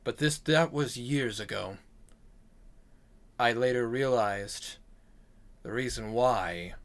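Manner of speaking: lightly voiced storyteller, low-key and measured; grave demon-slayer. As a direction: recount an old kill, voice sinking at line ends. Same character explains the weapon.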